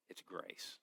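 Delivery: hushed, unvoiced whisper; whispered reveal. Real, not acted. Preacher answering his own question, whispering grace.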